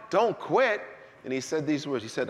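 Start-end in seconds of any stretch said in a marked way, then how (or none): 0.1-0.8 higher, louder "Don't quit" rising at the end; incredulous echo. Retold or imitated. Preacher echoing God's words back in disbelief. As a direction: repeat it like you can't believe it.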